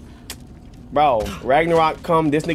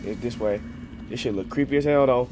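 scared horror game streamer; 5 semitones lower, 10 dB quieter than usual. Real, not acted. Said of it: "Let's not jump scare me".

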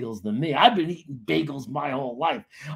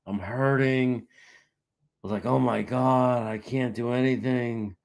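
slightly lower, groaning complaint; mock morning misery; 4 semitones lower than usual. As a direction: moan like someone waking up hurting. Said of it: "I'll wake up and I'll be like".

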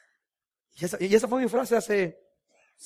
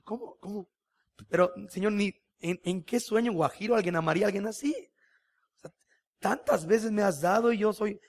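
amazed disbelief; 3 semitones higher than usual. Retold or imitated. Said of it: "Y más empieza así".

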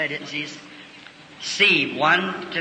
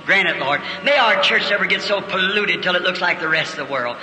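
fervent prayer. Acted. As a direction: pray it out, building and falling. Prays over the congregation.

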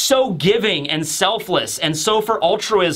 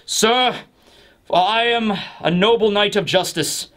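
noble knight; 3 semitones lower than usual. Retold or imitated. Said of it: "he would have been like".

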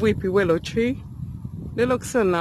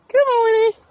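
calling out; 12 semitones higher, 4 dB louder, much faster than usual. Real, not acted. Calling the dog.

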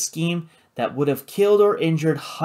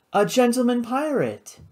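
higher, lilting coo; 10 semitones higher than usual. A narrator's reading. Karina greeting a gentleman pirate, cooing. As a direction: coo it in a high feminine voice. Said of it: "she cooed".

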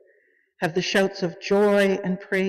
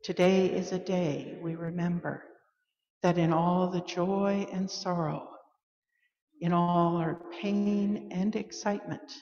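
quiet reassurance; 5 dB quieter than usual. Acted. Closing of call to worship, quiet assurance.

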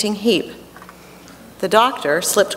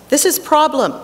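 Russian doctor voice; 7 semitones higher than usual. Retold or imitated.

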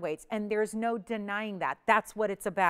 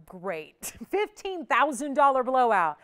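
mock-unimpressed viewer with a laugh; lightly voiced sceptical shopper; imitating unimpressed viewer; 5 dB louder, slower than usual. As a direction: play a shrugging viewer who doesn't get the deal. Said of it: "you're looking at that going".

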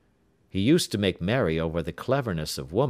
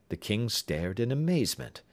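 ordinary delivery

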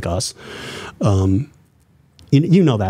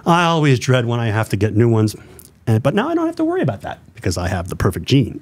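radio voice. Shown as a demonstration. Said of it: "I do my radio voice".

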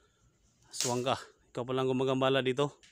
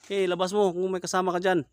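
loud, higher call into the dark; challenging shout; 6 semitones higher, 6 dB louder than usual. Real, not acted. Ghost hunter shouting at the aswang to come out. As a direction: order the creature out.

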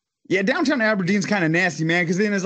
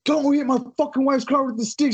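mock yell, pitched up; re-enacting yelling at her over the stick; retold yelling; 9 semitones higher than usual. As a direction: shout it again as he retells it. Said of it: "fucking screaming at her".

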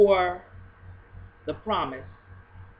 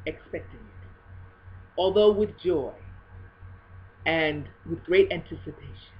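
holy spirit voice. Retold or imitated. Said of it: "the Holy Spirit says".

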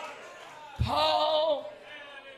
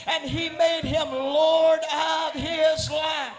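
preaching at full force. Acted. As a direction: preach it out to the congregation.

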